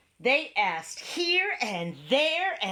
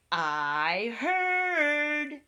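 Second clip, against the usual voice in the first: high bird voice; 6 semitones higher than usual. A narrator's reading. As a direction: chirp it like a bird. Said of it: "said the bird".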